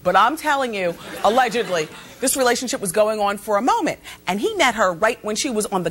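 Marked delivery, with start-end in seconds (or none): 1.2-1.9 "allegedly" stretched and pointed, knowing tone; stress on allegedly. Shown as a demonstration. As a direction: lean on "allegedly" with a wink. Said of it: "I say allegedly".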